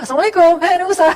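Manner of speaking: joyful, loud Assalamualaikum to the prophet; cheerful greeting. Acted. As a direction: greet like someone bursting with good news.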